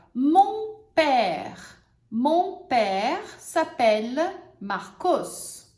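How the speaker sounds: broken into slow pieces; teacher builds the example; step-by-step example. Shown as a demonstration. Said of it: "vamos usar os exemplos agora".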